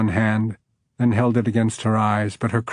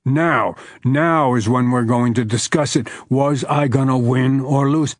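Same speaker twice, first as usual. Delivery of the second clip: demanding; 3 dB louder than usual. Acted. Man demands an answer, pressing.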